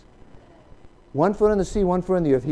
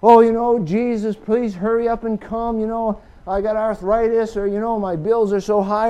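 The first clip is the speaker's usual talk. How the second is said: louder mock whine; mocking complainer; 3 semitones higher, 6 dB louder than usual. Preacher mimics impatient believers, mock whiny and louder. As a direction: parody people begging Jesus to hurry up. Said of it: "Like it's God's fault he hasn't come back yet".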